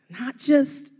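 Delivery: JUST hit high and loud; stress on just. Acted. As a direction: punch the word just, not just believing. Preacher stressing not just believing.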